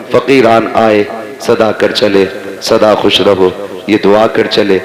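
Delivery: measured, sing-song verse delivery; poem recitation. Acted. Recites farewell verses in sermon. (ترنم سے اشعار پڑھنا)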